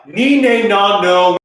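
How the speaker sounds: high, loud angry vowels; hammed-up shouting ni ne na no; mock rage. Shown as a demonstration. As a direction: yell the vowels in pretend fury. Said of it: "there's rage".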